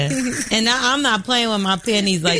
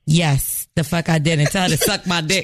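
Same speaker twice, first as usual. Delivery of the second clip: lower, defiant retort, laughing at the end; 5 semitones lower than usual. Retold or imitated. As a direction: own it, lower and proud. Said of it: "I said".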